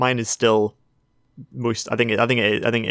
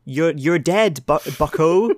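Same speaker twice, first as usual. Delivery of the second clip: Wolverine voice; 6 semitones higher, slower than usual. Pretend. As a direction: drag it out, hammy tough guy. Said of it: "just one more for safety".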